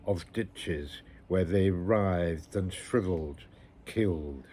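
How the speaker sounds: measured, solemn poem recital; poetry reading. Acted. Reader sharing a bleak war poem with listeners, measured recital. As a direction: recite it phrase by phrase, with pauses. Reads a Wilfred Owen poem.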